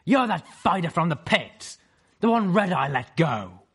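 sharp high griffin challenge; stern griffin voice. Acted. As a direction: call out in a hard female voice.

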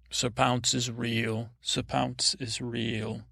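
slow, grave proclamation; solemn declaration. Pretend. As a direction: declare it like a sacred vow. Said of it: "Just say that".

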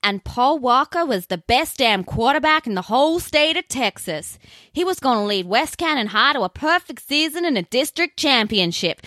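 a weak attempt at a Southern US accent. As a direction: ham up a Texas movie-trailer voice. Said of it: "I'm gonna stop with the southern accent now".

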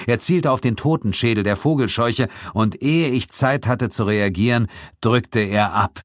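ordinary delivery

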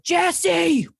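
high-pitched mock yell, drawn out; imitation of a man hollering; imitated screaming. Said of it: "this guy was screaming into a backyard".

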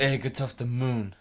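a badly faked alien barking an order; hammed-up mock alien, bluntly; terrible alien voice. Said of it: "That's terrible as well".

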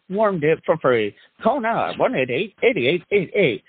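fast cheesy TV ad pitch; hammy announcer voice. Acted. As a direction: rattle off the fine print like an infomercial. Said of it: "do the hammy announcer voice".

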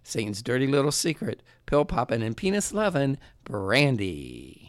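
booming ring announcer intro. Acted. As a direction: hype her up like a fight announcer. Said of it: "That was my announcer voice".

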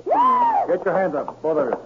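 sudden stern command; commanding shout. Acted. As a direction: bark the order, slow and high. Agent bursts in, arrest.

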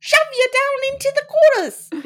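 put-on a deliberately terrible British accent; bad British accent. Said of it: "my hackneyed, real bad British accent".

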